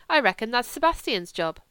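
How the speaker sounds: put-on lisping, grumbling German-accented voice; German accent, querulous complaint; complaining Kurt. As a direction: play a sulky German invalid.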